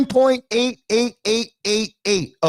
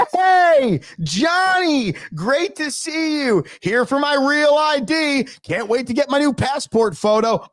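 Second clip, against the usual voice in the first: mock cheerful customer; 3 semitones higher than usual. Imagined cheerful DMV customer.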